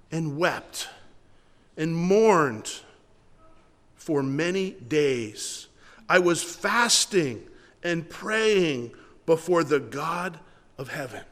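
slow, measured Bible reading with long pauses; scripture reading. Acted. Pastor reading Nehemiah's words to the congregation, slow and measured. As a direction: read the verse deliberately, letting each phrase land. Pastor reads verse four aloud.

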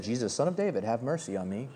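soft, low and limp; flat reading. Shown as a demonstration. Preacher mocking how people read it, soft and low. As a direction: read it off the page without feeling. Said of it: "We read it like".

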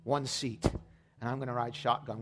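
slow, earnest led prayer; leading the church in prayer. Acted. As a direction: pray it phrase by phrase. Leads the sinner's prayer.

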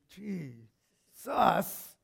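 drawn-out exasperated address; exasperated appeal. Acted. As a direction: stretch the name out in protest. Disciples wearily wondering at Jesus.

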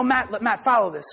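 ordinary talk

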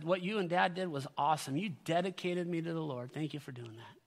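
retold soft, soothing thanks; gentle gratitude. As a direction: soften right down as if placating mom. Retells gentle reply to mom.

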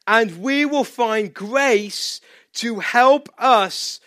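slow, hushed reading of the verse; scripture reading. Acted. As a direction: read it gently, almost breathing it.

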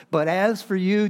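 "But as for you" lifted high and loud; emphatic contrast. Retold or imitated. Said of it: "I love this contrast here".

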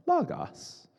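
very high-pitched parroting voice; Brian. Retold or imitated. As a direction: squeak it back, imitating an eager student. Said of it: "And Brian said".

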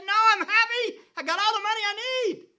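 high, loud, fast and smug; complacent church. Acted. Laodicean church answering Christ, loud and smug. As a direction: brush it off breezily like the rich church. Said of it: "They said".

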